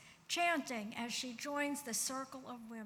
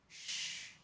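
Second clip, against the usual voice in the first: soft whispered hush; 5 dB quieter than usual. Acted. Hushing the congregation.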